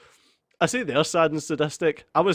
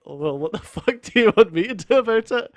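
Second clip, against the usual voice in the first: annoyed retort; 4 semitones higher, 3 dB louder, faster than usual. Retold or imitated. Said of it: "I'd be like".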